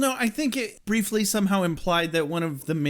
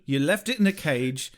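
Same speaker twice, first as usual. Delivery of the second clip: mock scolding; 3 semitones lower than usual. Acts Spike scolding Drusilla, lower.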